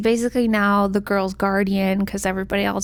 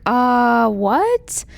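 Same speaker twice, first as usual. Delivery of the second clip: mock bafflement. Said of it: "so now she's like".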